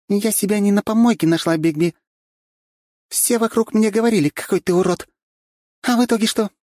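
high, loud indignant tirade; indignant Katya. A narrator's reading. Katya telling Bigby off indignantly, loud and high. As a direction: pour out her grievance.

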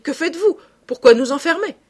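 high, loud, startled questions; surprise. A narrator's reading. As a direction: demand it in alarmed surprise. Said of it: "s'exclama Beautrelet tout surpris". (questions stupéfaites, voix haute et forte)

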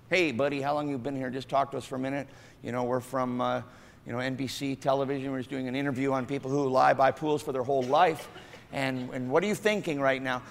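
a TV reporter casually questions the man; chatty reporter. Acted.

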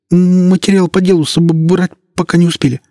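high, stammering, pleading voice; frightened policeman. Acted. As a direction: beg for mercy, stuttering with fear. Policeman answers in fear.

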